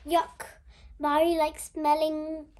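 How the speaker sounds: loud heckle from the crowd; shouted jeer. A narrator's reading. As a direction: call out a teasing jeer loudly. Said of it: "shouted from the crowd".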